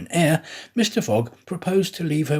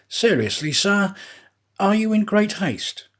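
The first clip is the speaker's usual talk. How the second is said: raised, pressing detective questioning; detective's eager voice; 7 semitones higher than usual. Acted. Detective urgently questioning Mister Fogg in a raised, pressing voice. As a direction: lean in and press him hard for an answer.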